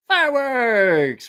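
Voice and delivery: loud, high, drawn-out shout; fireworks call. Shown as a demonstration. Host setting off the fireworks for the stream, long high shout. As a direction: holler it long, pitch sliding down. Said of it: "can I do the fireworks again".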